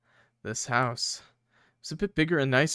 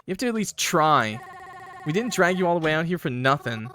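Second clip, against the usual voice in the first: higher, pushy coaxing voice; pleading character; 5 semitones higher than usual. Acted. Friend coaxing the ghost talker to try, pleading voice. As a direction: whine and urge them to try.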